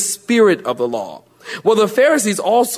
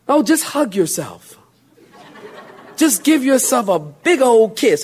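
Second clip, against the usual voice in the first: mocking laugh; 3 semitones higher than usual. Mocking self-love advice.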